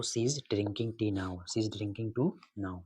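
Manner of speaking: slow, word by word, like dictating to a class; slow dictation. Shown as a demonstration. Teacher dictating the question to his students, slowly. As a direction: spell the sentence out slowly for students. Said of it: "reading the exercise sentence aloud".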